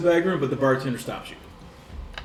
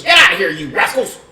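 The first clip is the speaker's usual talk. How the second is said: mock shout; 4 semitones higher, 7 dB louder than usual. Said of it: "She goes".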